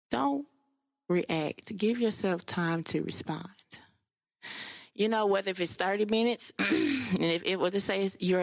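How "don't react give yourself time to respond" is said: emphatic repeat. Real, not acted. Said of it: "let me say it one more time".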